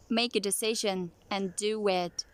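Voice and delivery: whispered practice line; whispering. Shown as a demonstration. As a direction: whisper it under your breath. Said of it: "say with one breath".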